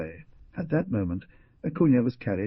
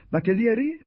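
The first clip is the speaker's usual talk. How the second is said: gasped name; 6 dB louder than usual. A narrator's reading. Dying man names the lawyer.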